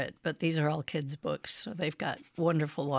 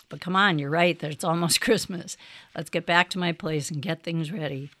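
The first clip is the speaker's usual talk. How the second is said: cheerful laughing Santa; 3 dB louder than usual. Acted. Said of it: "said Santa".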